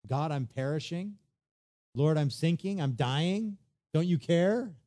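building from pleading to a loud, high accusing cry; rising frustration, ending on a high, loud "care"; desperate complaint. Retold or imitated. Believer accusing God in trouble, building to a loud cry. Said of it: "you're getting mad at the Lord".

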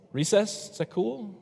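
put-on high pitched hopeful kid asking; mock hopeful student. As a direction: play a kid angling for recess.

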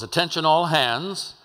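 ship loudspeaker call. Retold or imitated. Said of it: "they blow that whistle and it says".

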